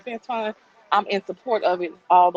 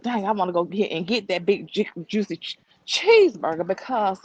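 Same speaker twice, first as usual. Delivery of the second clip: winded while walking; breathless, talking mid-stride; out of breath. Real, not acted. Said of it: "y'all, I'm out of breath, I'm walking".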